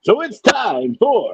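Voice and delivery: loud slow buildup; grand entrance announcement. Acted. Restarts segment announcement.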